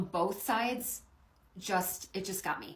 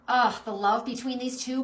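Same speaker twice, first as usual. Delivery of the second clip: overcome with feeling; 5 semitones higher, 9 dB louder than usual. Real, not acted. Moved by dog and owner.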